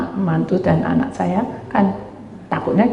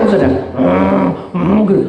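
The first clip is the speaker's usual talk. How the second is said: usual speaking voice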